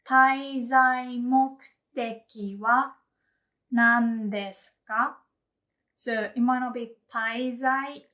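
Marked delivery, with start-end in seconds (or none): 0.0-5.2 滞在目的は drawn out slowly and a bit louder; slow officer question. Shown as a demonstration. Officer asks the traveller, slow and clear. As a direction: ask it slowly like an airport officer. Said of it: "Or they might ask".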